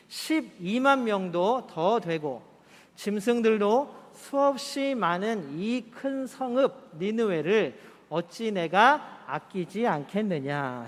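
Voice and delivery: slow, measured reading aloud; slow unison Bible reading; scripture reading. Acted. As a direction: read it out together at an even pace. Congregation reads verses 10-11.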